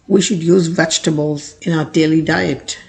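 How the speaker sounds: very slow, clear example; slow model sentence. Shown as a demonstration. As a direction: read it slowly for learners. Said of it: "example sentence read slowly". (धीमा उदाहरण वाक्य)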